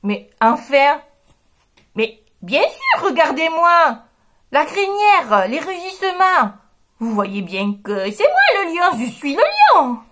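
insisting he's the lion; indignant lion. Acted. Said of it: "s'écrie". (le lion indigné s'écrie)

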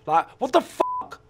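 drawn-out, high, real disbelief; angry outburst. Real, not acted. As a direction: let the anger burst out slowly. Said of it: "I get angry with these fuckers".

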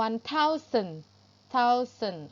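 THOUSAND split into "thou-sun", starting on th; tongue-out th. Shown as a demonstration. Teacher showing pupils the th, careful pronunciation. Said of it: "เอาลิ้นออกมา".

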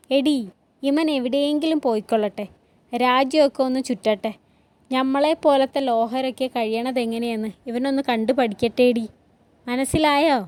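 lightly voiced domineering father laying down his verdict; a hint of an irascible village patriarch; short-tempered father, gruffly opinionated. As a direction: lecture your wife about the son.

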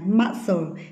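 "Muscle" with the letter C silent. Shown as a demonstration. Teacher has class repeat the word, C kept silent. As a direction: say "Muscle" without any k sound. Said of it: "Letter C là âm cầm".

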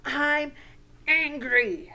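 acted anger. Shown as a demonstration. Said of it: "to name our feeling".

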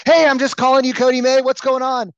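loud, high, hammed-up sales greeting; over-enthusiastic. Shown as a demonstration. Sales coach demoing an overdone call opener to Cody, over-enthusiastic. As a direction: blast out a mock-enthusiastic hello. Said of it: "let's not be enthusiastic".

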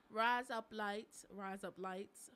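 drawn-out attempt at Australian; badly faked Australian accent. Shown as a demonstration. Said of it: "say with an Australian".

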